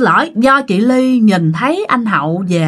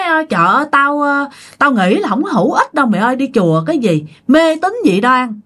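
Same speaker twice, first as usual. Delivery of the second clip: scoffing; 3 semitones higher than usual. Retold or imitated. Friend scoffs at temple.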